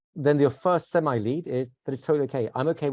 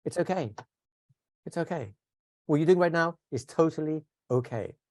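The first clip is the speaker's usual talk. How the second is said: angel therapy; 3 semitones higher than usual. Shown as a demonstration. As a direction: reassure gently and unhurriedly. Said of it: "my wife calls this angel therapy".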